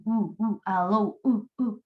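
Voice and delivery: isolated "u, u" hummed from the end of "allow"; voiced final sound. Shown as a demonstration. Teacher shows the consonant that sounds, short voiced "u" repeats. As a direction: repeat the "u" glide alone around "allow". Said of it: "que suena".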